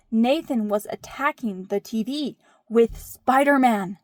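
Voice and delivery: emphatic kid tattling, lightly imitated; child's dramatic report. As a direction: report it like an indignant child, punching SPIDER-MAN. Quotes oldest child reporting the attack.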